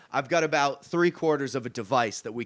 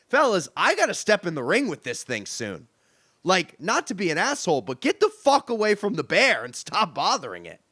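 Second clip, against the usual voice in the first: retold yell; 3 semitones higher than usual. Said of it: "he starts yelling".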